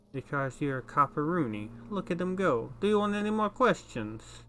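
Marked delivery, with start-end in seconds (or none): 1.9-4.4 higher and louder, egging him on; excited necktie cheer. Acted. Talking necktie urging the detective on, excited and loud.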